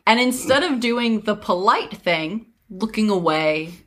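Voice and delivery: measured fairy-tale narrator; story narration. A narrator's reading. Telling friends of a scolding mother, story narration.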